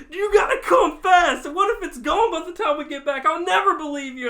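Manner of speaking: mock-frantic friend on the phone; excited urging. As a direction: push him to come quick. Friend's urgent demand voiced.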